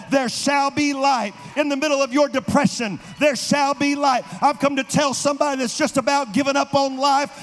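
rising preacher's roar, building; thundering prophet voice. Acted. Preaching rises to full force.

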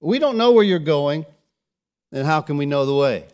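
just say it straight out, loud; blurting it out. Retold or imitated. Thomas voicing what everyone wonders, loud bold question. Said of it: "he just says it".

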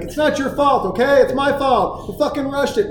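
high, exasperated re-enacted outburst; retold self-directed yelling. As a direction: blame yourself sharply, as if scolding the child. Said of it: "I'm yelling at me".

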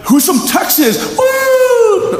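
high shout ending in a whoop; crowd hype shout. Retold or imitated. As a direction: get the arena roaring. Host hypes the crowd.

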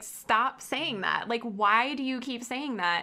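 slow, emphatic reprimand, imitated; retold harsh scolding. Mentor demanding the student teacher stop, retold harshly. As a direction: quote her telling-off, drawing out each word. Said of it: "she said it pretty harshly, too".

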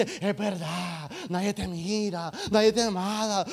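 sidle up with a discouraging lie; enemigo insidioso. Acted. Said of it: "el enemigo se te acerca y dice". (voz suave del enemigo, levemente actuada)

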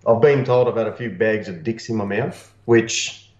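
talking through a paper cone; muffled cone voice, hollow and boxy; paper cone megaphone. Real, not acted. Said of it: "Sound like you're talking through the cone".

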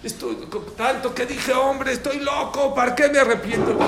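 high, hammed-up wail of regret; imitated crying. Father regretting he wished for a boy, mock crying. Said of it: "Empezó a llorar como el hombre".

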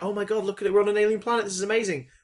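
mildly excited mock quote; imitated enthusiasm. Host quoting Bill on an alien planet, mildly excited imitation. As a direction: play a lightly wide-eyed companion. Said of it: "she's more enthusiastic".

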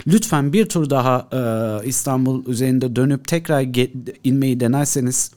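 lightly voiced radio controller; air traffic controller. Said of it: "Ben kuledeyim".

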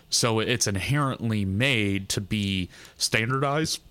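talking through burps; words broken by a small burp. Real, not acted. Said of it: "Sorry, I'm burping a lot".

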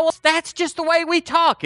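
high-pitched imitation of an objector; mock protest. Voices an objecting listener.

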